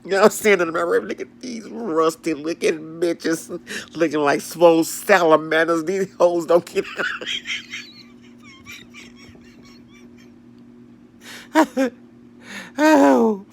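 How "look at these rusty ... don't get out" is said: mock fussing. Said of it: "I'm sitting up there fussing".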